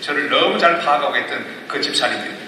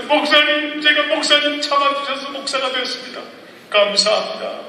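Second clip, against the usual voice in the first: higher, tearful-sounding thanks as the deacon; grateful deacon on the phone; 11 semitones higher than usual. Retold or imitated. Deacon phones the pastor on ordination day, high grateful voice. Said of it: "목사 안수 받는 날 전화했어요".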